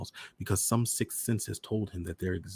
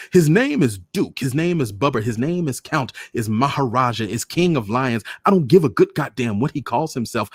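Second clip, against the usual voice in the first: furious loud roar; 6 semitones higher, 11 dB louder than usual. Acted. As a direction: roar it out in fury. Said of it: "My father roared, terrible in his anger".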